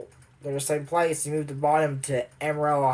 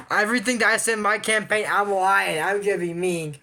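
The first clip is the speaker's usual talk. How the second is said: mock lying president; 4 semitones higher than usual. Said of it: "you want to be president, goes".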